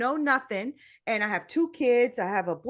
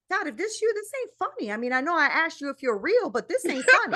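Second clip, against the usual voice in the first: mock complaint; 6 semitones higher than usual. Retells complaining to God after fire.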